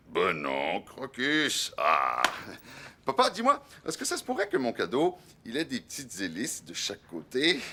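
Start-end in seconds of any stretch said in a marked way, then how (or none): 3.1-7.6 put-on eager child asking. Child pleads with father. (enfant plein d'espoir)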